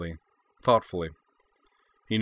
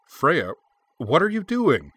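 loud, much higher demand; 8 semitones higher, 6 dB louder than usual. A narrator's reading. Frey to his sister in the kitchen, loud demanding. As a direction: call her out sharply. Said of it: "Frey demanded".

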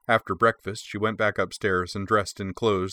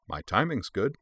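cheerful; 3 semitones higher than usual. Acted. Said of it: "she said cheerfully".

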